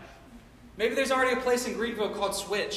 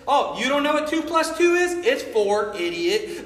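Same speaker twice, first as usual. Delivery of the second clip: mock condescending boss; 6 dB louder than usual. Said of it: "he's like".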